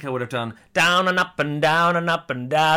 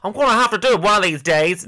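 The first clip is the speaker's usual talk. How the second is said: a terrible, laughing imitation of a singer, higher and louder; impression of a singer; 6 semitones higher, 6 dB louder than usual. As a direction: camp it up as the singer, then crack up. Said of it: "that was a terrible accent".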